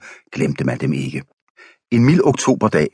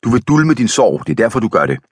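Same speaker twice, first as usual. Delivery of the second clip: eager pressing; 6 semitones higher than usual. Acted. Wife presses the young man.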